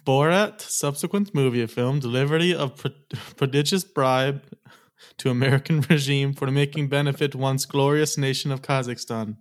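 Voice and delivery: lightly put-on Kazakhstan accent, punching the opening name; mock Kazakhstan accent. Co-host reciting the whole long movie title for the host, mock Kazakhstan accent. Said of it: "the Kazakhstan accent down better than I do".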